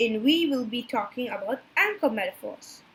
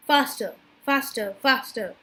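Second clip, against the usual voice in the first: hurried poem reading. Shown as a demonstration. Student demonstrates enjambment to the class, hurried run-on reading. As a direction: run the lines together, barely pausing. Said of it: "make the poem go faster".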